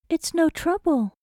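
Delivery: kind comforting. A narrator's reading. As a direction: reassure her kindly. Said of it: "the woman's kind voice continued to offer comfort".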